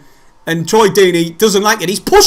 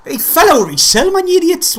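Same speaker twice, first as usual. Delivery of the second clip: louder, higher rant at the players; frustrated outburst; 11 semitones higher, 3 dB louder than usual. Real, not acted. Fan venting at his team's defending, frustrated and raised. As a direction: vent at the screen in disbelief.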